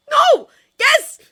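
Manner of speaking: high, shouted panicky splutter; frantic squealed backpedalling. A narrator's reading. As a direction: blurt each word out very loud, flustered. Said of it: "Fish legs spluttered".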